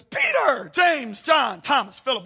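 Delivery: high, loud call of the disciples' names; a lightly voiced cheerful Jesus; voicing Jesus.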